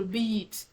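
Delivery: long tense vowel in beat; pulled long vowel. Shown as a demonstration. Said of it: "your voice goes louder compared to".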